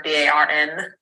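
"B A R N" spelled letter by letter, each letter said on its own. Shown as a demonstration. Spelling "B A R N" letter by letter so the listener does not hear bar. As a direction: spell out "B A R N" one letter at a time so nobody hears bar. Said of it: "not bar".

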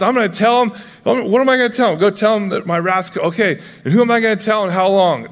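playfully hyped, racing to go tell; pumped up. Retold or imitated. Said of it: "Isaiah's all pumped".

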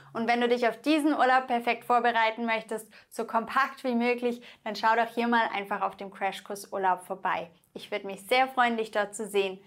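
quick friendly sign-off read; brisk closing ad for the course; fast outro promo. Acted. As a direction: rattle off the channel outro briskly.

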